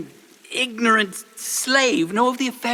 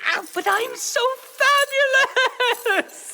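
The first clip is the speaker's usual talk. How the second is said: hammed-up wail; 5 semitones higher than usual. Advisor hauled off, wailing.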